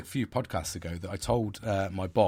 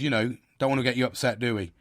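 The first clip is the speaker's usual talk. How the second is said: patronising; 3 semitones higher, 4 dB louder, faster than usual. Retold or imitated. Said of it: "so you're patronising me".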